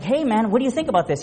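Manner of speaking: high eager question about the new watch; excited asking. Retold or imitated. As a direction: pitch it up, thrilled.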